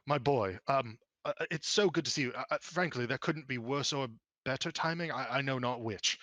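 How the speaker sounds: stammering, stop-start fatherly greeting; flustered father. Acted. Father runs over to greet his boy, mildly flustered.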